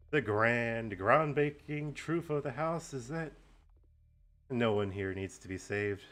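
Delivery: grand, slow villain proclamation; slow theatrical villain menace. Acted. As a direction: savour the big reveal slowly. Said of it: "do a nice villain monologue".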